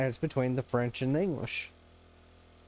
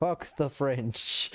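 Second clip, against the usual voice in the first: mock quote; much slower than usual. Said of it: "things like".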